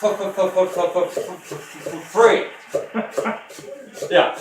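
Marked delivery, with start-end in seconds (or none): 0.0-2.5 1 dad's stuttered free. Retold or imitated. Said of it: "my dad would say, it goes like this".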